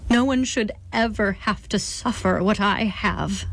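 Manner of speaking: choked out. Acted. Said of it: "the First Lady choked out".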